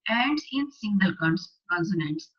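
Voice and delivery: slow, deliberate classroom dictation; slow worksheet read-aloud. Acted. Teacher reading the worksheet aloud to class eight students, slow and deliberate. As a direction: read each phrase out slowly for the class.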